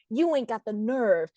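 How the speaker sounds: lightly voiced villain, low and slow; slow, low showdown taunt; menacing challenge. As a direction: draw it out low, daring him. Acted showdown threat from Jake.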